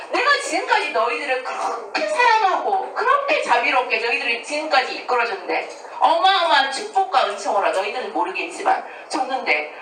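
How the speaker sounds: hurt plea with pitch leaping up; acted sorrowful reproach. God to doubting people He has led, acted hurt reproach. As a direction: reproach them as a wounded, loving parent would. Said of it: "너무 슬픈 거야. 하느님도 마찬가지예요".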